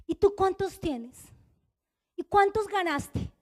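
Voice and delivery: slow, drawn-out interrogation; pointed questioning. Retold or imitated. Leader quizzing members at the weekly meeting, pointed questioning. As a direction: put the question slowly, putting them on the spot.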